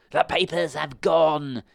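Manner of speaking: high, loud, slow furious shriek. A narrator's reading. Blind man shrieking to the pirates. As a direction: scream out of the window. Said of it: "he shrieked".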